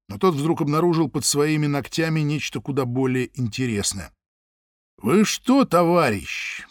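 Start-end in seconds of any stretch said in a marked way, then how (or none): 5.0-6.7 pointed indignation. Acted. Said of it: "подчёркнуто возмутился Самойлов".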